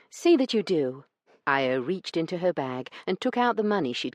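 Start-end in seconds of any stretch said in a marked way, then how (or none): 0.1-1.0 high, loud, prim indignant lady's voice; a proper lady scolding a crook, higher and louder. Acted. Io accusing Branson over the missing stamps, indignant and high.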